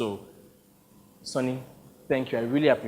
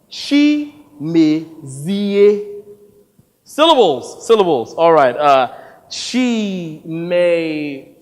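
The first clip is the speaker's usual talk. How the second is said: fumbling the name; 6 dB louder, much slower than usual. Acted. Director struggling with syllables, loud. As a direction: trip over the name and complain.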